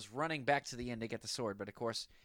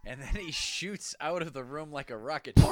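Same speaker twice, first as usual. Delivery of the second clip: excited whisper; 3 semitones higher, 11 dB louder than usual. Real, not acted. Excited retelling of exit.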